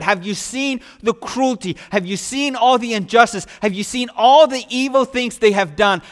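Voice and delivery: Jonah ranting at God, pitch pushed up and loud; furious Jonah. Retold or imitated. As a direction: hammer each have you seen like an outraged prophet, slowing on the last line. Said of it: "Jonah was absolutely furious".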